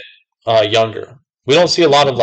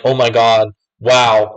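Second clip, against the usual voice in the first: pleasantly amazed; slower than usual. Retold or imitated. Customer pleasantly surprised by the worker, mild amazement. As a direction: imitate a happy surprise, lightly. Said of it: "in a good way".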